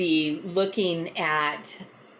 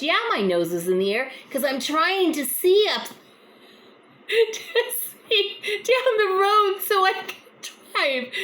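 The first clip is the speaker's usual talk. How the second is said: much higher, laughing, stretched-out voice; laughing high imitation; 12 semitones higher than usual. Mrs Jones laughing at the misunderstanding, much higher. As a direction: squeak it out through a laugh.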